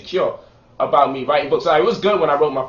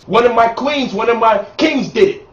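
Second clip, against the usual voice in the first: calmer, dignified praise; conscious version. Pretend. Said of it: "If you conscious".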